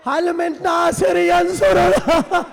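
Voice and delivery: drawn-out, slow, weeping appeal; tearful cry for help. Retold or imitated. Husain calls for a helper at Karbala, tearful cry. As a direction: call out slowly, voice breaking in grief. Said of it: "رو کر کہنے لگے".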